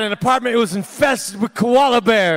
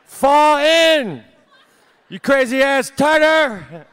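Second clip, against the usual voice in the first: higher, louder mock drill-sergeant order, slow at the end; scolding the tartar; 5 semitones higher, 4 dB louder, slower than usual. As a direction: bark orders at your tartar, hammed up. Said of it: "I'm like".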